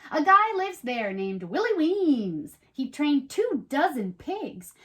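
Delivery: storybook read-aloud, lively and even; reading to children. Acted. Host reads the rhyming book to young viewers, in a storybook voice. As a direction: tell it like a bedtime rhyme.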